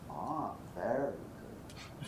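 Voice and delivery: slow, soft, drawn-out musing; imitated unruffled approval. Colleague answers criticism at lunch, imitated unruffled approval. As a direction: take it in slowly and quietly, imitating him.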